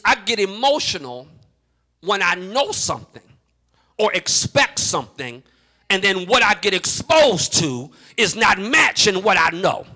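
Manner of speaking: measured delivery with pauses so listeners get it; slow explanation. Shown as a demonstration. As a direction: say it slowly, phrase by phrase. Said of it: "let me say it slow so you get it".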